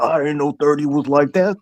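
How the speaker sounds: lightly put-on clueless voice; a hint of naive surprise; mock clueless people. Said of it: "they're like".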